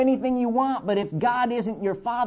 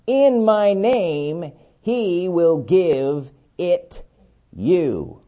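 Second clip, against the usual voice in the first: solemn scripture reading; slower than usual. Acted. Preacher to congregation, reading Jesus' words in slow solemn cadence. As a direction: lay each word down like holy writ.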